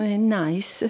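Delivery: put-on dad's Slav-accented verdict; mock Slav accent. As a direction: imitate dad with a Slav accent. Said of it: "it's a Slav accent".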